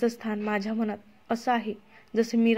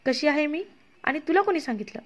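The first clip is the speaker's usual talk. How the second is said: higher, bewildered questions; confused retort, pitched up; confused, taken aback; 5 semitones higher than usual. Acted. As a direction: ask in shocked confusion. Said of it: "हे ऐकून अमृता गोंधळून गेली".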